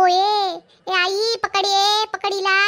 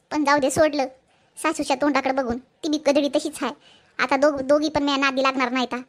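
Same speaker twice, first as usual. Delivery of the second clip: smug aside; 5 semitones lower than usual. Acted. Shila's smug aside to camera.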